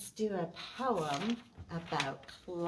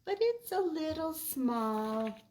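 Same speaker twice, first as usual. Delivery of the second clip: higher friends' voice; higher, louder friend voice; 9 semitones higher, 4 dB louder than usual. Acted. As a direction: point out gently it's small. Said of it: "says his friends".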